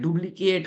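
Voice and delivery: "डुप्लीकेट" with a voiced B for its P; mispronounced with B. Shown as a demonstration. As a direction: say "डुप्लीकेट" wrongly, as if spelt with B. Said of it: "ब बोलते हैं, ब नहीं बोलना". ("डुप्लीकेट" में प को ब बोलते हुए)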